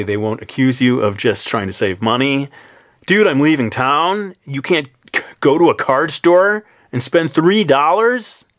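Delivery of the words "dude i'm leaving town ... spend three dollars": loud, high, drawn-out surfer dude voice. Acted. Friend accusing you of saving money on a card, surfer dude voice. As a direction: play an incredulous surfer dude, stretching the words. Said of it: "the voice of a surfer dude".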